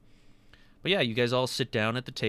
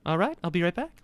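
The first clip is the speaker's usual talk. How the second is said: creaky greedy waiter voice; 7 semitones higher, much faster than usual. Acted.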